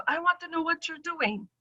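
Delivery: high, soft pressing question; doctor's curious tone. Retold or imitated. Doctor asking what she's taking, high and soft. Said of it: "she goes".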